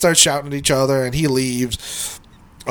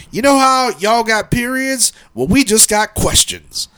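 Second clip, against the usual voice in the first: lightly voiced old worker, higher pitch; a hint of an old guy delivering his line; imitated old guy; 8 semitones higher than usual. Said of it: "this old guy".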